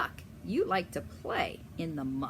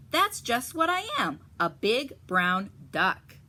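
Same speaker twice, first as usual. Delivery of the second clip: higher, louder sly reply; fox stranger; 4 semitones higher, 5 dB louder than usual. Acted. Fox stranger answering Mama Duck, sly higher voice. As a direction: play the fox pretending innocence. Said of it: "says the stranger".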